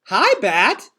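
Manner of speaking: a little child's mumble, voiced lightly; half-asleep little girl murmuring; sleepy toddler murmur. A narrator's reading. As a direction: toddler greeting her brother, drowsy murmur. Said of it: "she murmured".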